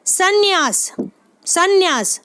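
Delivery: संन्यास with the n doubled, सन्-न्यास; careful pronunciation. Shown as a demonstration. Teacher showing students how to say संन्यास. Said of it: "ध्यान रखें सा के ऊपर".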